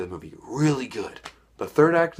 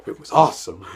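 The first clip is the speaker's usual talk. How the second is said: said out loud and emphatic; proud loud declaration after a whisper; louder; 2 semitones lower, 5 dB louder than usual. Shown as a demonstration. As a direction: bring the whisper up to full voice. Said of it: "And it was awesome".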